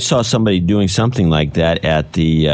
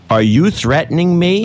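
mock indignant yell, pitched high; high-pitched imitation of an angry challenge; imitated yelling; 9 semitones higher than usual. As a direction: retell a guy raising his voice, pitch jumping up. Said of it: "the guy was yelling".

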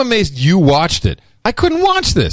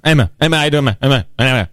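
laid-back radio DJ voice; imitating a casual radio guy, short bursts; faster than usual. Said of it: "they talk like this".

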